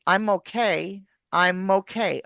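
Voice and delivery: "I'm okay" said as "I-mokay"; linked words. Shown as a demonstration. Coach shows linking, "I'm okay" run together. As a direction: move the M of I'M onto OKAY. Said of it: "Okay becomes mokay".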